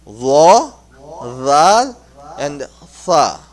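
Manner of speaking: "Ra", "Ra", "Tha" one by one, tongue edge on the top teeth; true pronunciation. Shown as a demonstration. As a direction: give each letter alone: "Ra", "Ra", "Tha". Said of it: "that's the true pronunciation".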